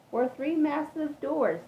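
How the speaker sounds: "three massive doors" drawn out, high and loud; emphatic stress. A narrator's reading. Reader pointing out three doors, slow loud emphasis. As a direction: lean hard on "three massive doors", slowly. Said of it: "I want to point out three".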